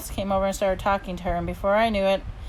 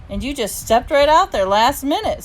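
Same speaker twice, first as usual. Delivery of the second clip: higher, louder marvelling; impressed and thrilled; amazed; 6 semitones higher, 6 dB louder than usual. A narrator's reading. Dad marvelling at his daughter stepping in, amazed.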